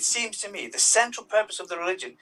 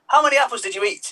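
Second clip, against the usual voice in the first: suspicious God; 7 semitones higher, 5 dB louder than usual. Acted. God confronts pregnant Eve.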